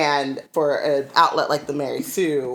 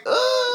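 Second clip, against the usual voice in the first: mock groan. Retold reaction to sappy motive.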